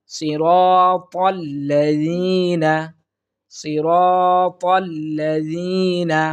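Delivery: সিরাতাল্লাযীনা with a soft, tongue-tip য; soft zal. Shown as a demonstration. Teacher giving the correct zal sound. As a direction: chant it slowly with a soft zal. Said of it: "জালের উচ্চারণ".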